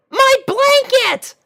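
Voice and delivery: very high, loud, slow wail; a little dragon crying out for his blanket; high-pitched shout. Acted. Spike shouts for his blanket, very high and loud. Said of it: "shouted Spike in a high-pitched voice".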